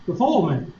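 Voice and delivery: "foil" said as "fole"; Southern pronunciation. Shown as a demonstration. Instructor recalling his own method, Southern "fole" for "foil". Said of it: "I said it the way that I say it".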